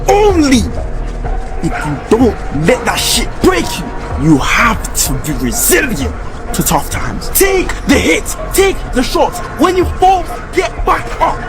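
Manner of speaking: fired-up motivational shouting. Real, not acted. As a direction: yell it like a coach.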